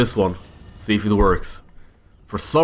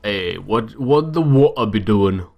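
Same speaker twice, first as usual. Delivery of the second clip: playful, rough attempt at British; mock British, not very convincing; amateur British accent. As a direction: put on a shaky-skilled British accent. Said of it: "my British accent is not the best".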